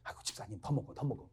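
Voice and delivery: soft coaxing of a deacon. Shown as a demonstration. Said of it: "그렇게 말을 하세요".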